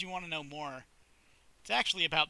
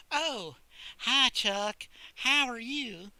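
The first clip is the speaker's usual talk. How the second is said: higher put-on girl voice; shy librarian; 7 semitones higher, 4 dB louder, much slower than usual. Sally greeting Chuck at her library desk, higher voice. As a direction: greet him a bit nervously.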